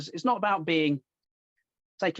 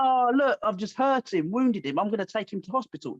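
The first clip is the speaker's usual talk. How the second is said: mock caring fighter; 4 semitones higher than usual. Mocking a caring opponent.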